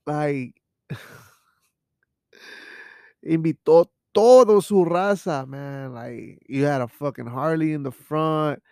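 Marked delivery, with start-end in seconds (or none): 3.2-5.5 louder, higher indignant exclaim; exasperated outburst. Acted. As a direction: blurt it out indignant.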